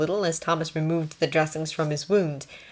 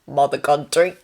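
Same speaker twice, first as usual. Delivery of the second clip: put-on Australian accent; 6 dB louder than usual. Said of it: "Australian, that was what the accent".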